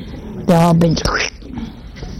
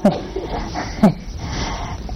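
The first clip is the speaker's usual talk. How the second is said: a breathy chuckle; real soft laugh at the joke; 8 dB quieter than usual. Real, not acted. Laughing at the story.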